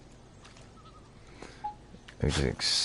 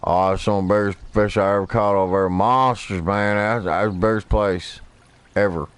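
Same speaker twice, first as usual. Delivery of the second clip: mocking braggy fishermen; 4 semitones higher, 3 dB louder than usual. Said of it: "you ever hear people".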